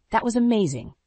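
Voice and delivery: mildly breathless wonder; awed admiration. A narrator's reading. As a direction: say it full of admiration. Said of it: "she breathed".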